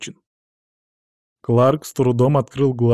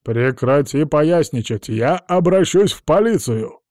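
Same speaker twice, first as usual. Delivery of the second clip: slow, raised angry growl; growled threat; 4 semitones higher, 5 dB louder, slower than usual. A narrator's reading. Clark threatens Amelia with the police, slow growl. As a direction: threaten her through a snarl. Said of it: "прорычал Кларк".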